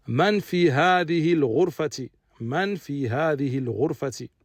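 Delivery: man fi hadhihi al-ghurfati read out carefully, man stressed; model sentence. Shown as a demonstration. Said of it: "Également". (man fi hadhihi al-ghurfati, récité avec soin)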